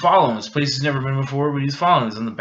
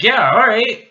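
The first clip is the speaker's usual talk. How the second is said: put-on high girly voice; 11 semitones higher, 9 dB louder, slower than usual. Girl voiced in retold scene.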